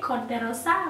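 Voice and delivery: "Corte Rosa" with a rolled Spanish r and open vowels; Spanish accent. Shown as a demonstration. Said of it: "Look at me trying to get my Spanish accent".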